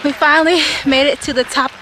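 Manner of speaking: breathless, panting after the climb; out of breath at the summit. Real, not acted. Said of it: "'cause I'm out of breath".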